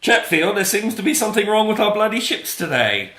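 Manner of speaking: loud, high-pitched British exclamation; theatrically alarmed British officer; British accent. Acted. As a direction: call it out in a hammed-up British accent. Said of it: "gotta say the, the thing in the accent".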